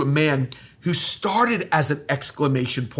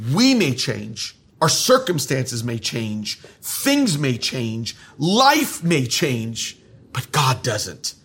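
slow building stress; 3 semitones lower, slower than usual. Acted. Preacher building contrast.

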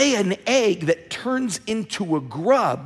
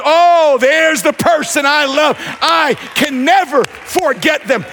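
a hammed-up lovestruck God, louder; God in love; 4 semitones higher, 3 dB louder than usual. God spots his loved one on his palm, loud delighted gush. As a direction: gush like a smitten kid. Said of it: "Every time God goes".

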